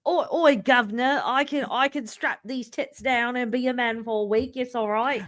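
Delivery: high-pitched mock English accent. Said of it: "an English accent".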